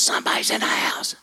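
quick, hissed stage whisper; urgent whisper. Retold or imitated. Mom warning her son of an intruder, fast whisper.

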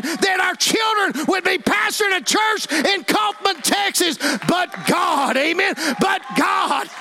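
high, driving revival sermon; full-force preaching. Real, not acted. Preacher urging the church to share the gospel, fervent shouting.

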